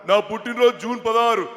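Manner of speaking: mimicked politician's emphatic answer; lightly voiced politician impersonation; V Hanumantha Rao. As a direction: answer firmly as the elder politician. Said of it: "Hanumantharao గారి bit ఒకటి".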